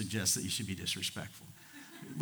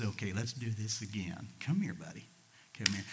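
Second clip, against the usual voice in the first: gentle coaxing; 2 semitones lower, 6 dB quieter than usual. Retold or imitated. Rider giving a runaway horse another chance, gentle. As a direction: gently call a buddy back.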